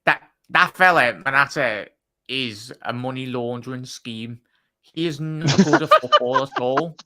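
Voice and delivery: loud, scornful outburst at the name Morata; scornful rant. Real, not acted. Fed-up pundit to his co-host about Morata, loud scornful rant. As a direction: spit it out like he can't believe the club would sign him.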